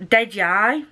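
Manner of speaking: sarcastic "Did ya?" in a Scottish accent; doubting Scottish question; sarcastic Scottish phrase. Shown as a demonstration. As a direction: demonstrate mild Scottish sarcasm. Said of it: "it's very sarcastic".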